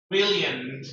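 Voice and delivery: BRILLIANT with a firm final sound; strong NT ending. Shown as a demonstration. Teacher correcting a student's brilliant, strong ending. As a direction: land the end of BRILLIANT firmly. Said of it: "N T sound has to be stronger".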